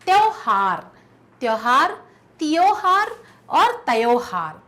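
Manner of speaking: each variant sounded out distinctly; reading spelling options aloud. Shown as a demonstration. Teacher reading out the answer choices, each carefully. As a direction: say each spelling just as it is written. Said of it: "जो दूसरा वाला है वो सही".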